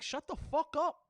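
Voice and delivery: high exasperated snap; exasperated outburst. Real, not acted. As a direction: shut them up, fed up. Angry rant.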